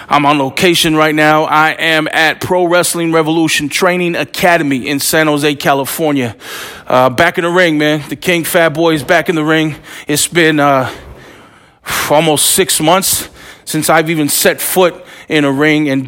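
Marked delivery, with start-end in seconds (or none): none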